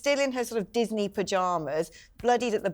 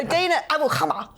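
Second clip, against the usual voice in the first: mock newsreader's Arabic pronunciation; BBC-style Arabic accent; 6 semitones higher, 4 dB louder than usual. Shown as a demonstration. Starting the student's story, name in a mock Arabic accent. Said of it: "let me do that in my B B C accent".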